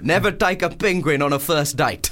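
put-on South African accent. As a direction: do a South African saying a proverb. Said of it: "that's a good South African accent".

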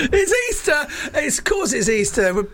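squeaky high voice; high squeaky mock voice; comic falsetto. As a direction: pipe it up high and silly like a mock child.

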